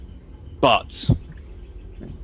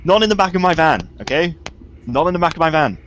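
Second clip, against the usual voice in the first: raised, emphatic prohibition; firm forbidding; 4 semitones higher than usual. Acted. Telling device no trees in the van, firm forbidding. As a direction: lay down the law, stressing each phrase.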